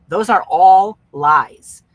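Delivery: slow, loud, weighted declaration; emphatic. Real, not acted. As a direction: land each word hard and slow. Emphatic declaration against false beliefs.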